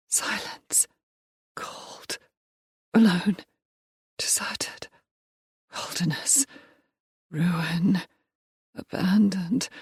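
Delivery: breathy fragments, barely voiced; whispering. Lost child whispering her despair alone. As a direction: whisper each word into the dark.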